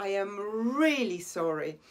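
really punched and lengthened; really said with a firm accent, rest light; stress on really. Shown as a demonstration. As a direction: hit the word really. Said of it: "Podkreślam je, tak kładę na nie akcent".

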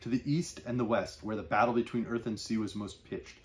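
measured literary reading voice; story narration. Acted. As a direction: evocative read-aloud of a novel passage. Reads closing novel passage.

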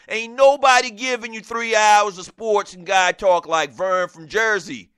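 mock New York radio host accent, slowed and hammed; lightly imitated New Yorker accent, promo style; Vern's New York accent. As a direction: do a New York sports-talk host accent, selling the show. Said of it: "don't he just sound like the typical New Yorker".

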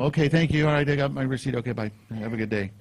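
mock-flustered, starting high and trailing down; flustered fumbling. Nervous customer thanking an attractive clerk, flustered. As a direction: act out a nervous, babbled goodbye. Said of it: "I'm fumbling over words".

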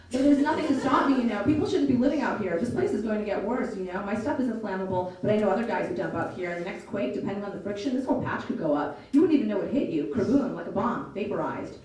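put-on lively audiobook read of a teen's story; story narration. A narrator's reading. Narrator reading a novel to listeners, storytelling voice. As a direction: tell it like a storyteller.

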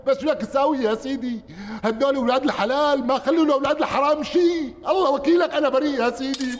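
high, insistent protestations of innocence; loud protesting plea. Acted. Butcher swears to the interrogator he is innocent, loudly pleading.

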